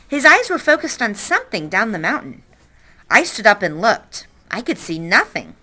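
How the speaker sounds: lively read-aloud narration for the class; story narration. A narrator's reading. Teacher reading a novel to class, lively narration. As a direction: tell the story to the kids, with energy.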